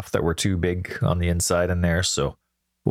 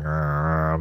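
annoyed growl; 3 semitones lower than usual. Retold or imitated. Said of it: "mumbling already".

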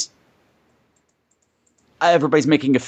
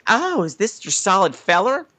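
higher mock Arkansas country voice; Arkansas hill accent; 4 semitones higher than usual. Imitating the newcomer spotting the boyfriend's photo, Arkansas accent. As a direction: play a naive girl with an Arkansas accent. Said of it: "Patrick's got that accent just about right".

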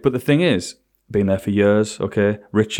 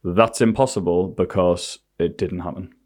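firm and slow; 4 semitones lower, slower than usual. Retold or imitated. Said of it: "I went".

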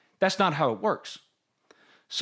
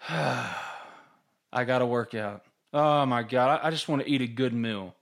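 lower, slow, tired mock grumble; weary grumble; 4 semitones lower, 3 dB quieter than usual. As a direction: drag the words out like you just woke up. Quoting tired morning thoughts.

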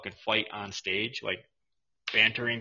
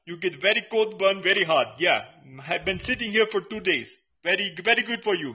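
mock vendor voice; 7 semitones higher, 5 dB louder than usual. Vendor character continues.

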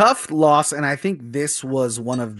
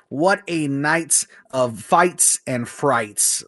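slow dramatic delivery; much slower than usual. Acted. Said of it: "Oh, you like that, Dan?".

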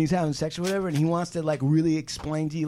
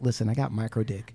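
whispered, low aside; mock confession; 8 semitones lower, 6 dB quieter than usual. Cohost voicing a man warning a date, hushed confession. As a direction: imitate a man confiding it in a whisper. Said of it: "does he tell you ahead of time".

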